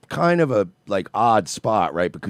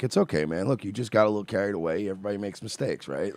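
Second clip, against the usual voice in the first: soft reassuring to a suspect; soothing; 3 semitones lower, 9 dB quieter than usual. Retold or imitated. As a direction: talk him down gently, quietly. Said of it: "where he's like".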